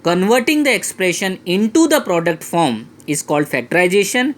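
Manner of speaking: deliberate, word by word; teacher slowly stating the rule to remember; slow emphatic definition. Shown as a demonstration. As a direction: spell out the definition so it sticks. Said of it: "always remember this final statement".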